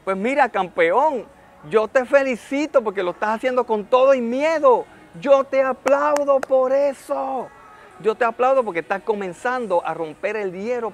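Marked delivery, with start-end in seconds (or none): 0.0-4.9 louder, upbeat pep talk to a beginner; encouraging cheer. Retold or imitated. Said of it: "Yo digo". 5.2-7.5 higher, louder and slow, every word pressed; emphatic praise. Retold or imitated. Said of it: "Yo digo".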